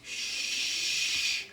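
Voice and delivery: a soft unvoiced shush; breathy shh to quiet friends. A narrator's reading. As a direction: hush them quickly. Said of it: "I said".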